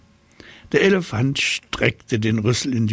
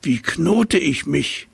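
puzzled giraffe; 7 semitones higher than usual. Acted. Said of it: "fragte sie".

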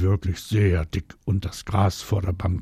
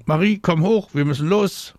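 high, loud call from a balcony; 10 semitones higher, 5 dB louder than usual. A narrator's reading. Mama summons Marie from the balcony, calling out. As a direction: call your child in from above. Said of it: "da ruft Maries Mama vom Balkon".

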